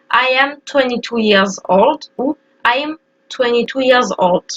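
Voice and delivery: YEARS with its final S clearly pronounced; sounded final S. Shown as a demonstration. Teacher modelling both forms for learners, sounded final S. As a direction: carefully finish YEARS on an audible S. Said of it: "il faut prononcer le S".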